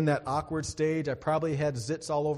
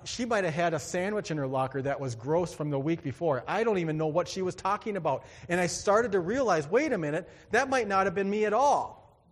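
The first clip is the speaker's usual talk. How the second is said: building from ordinary talk to louder, higher realization; dawning relief; 3 semitones higher, 4 dB louder than usual. Retold or imitated. Teen in the bathroom realizing the remark wasn't about him, rising excited relief. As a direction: catch yourself as the truth dawns, rising as you go.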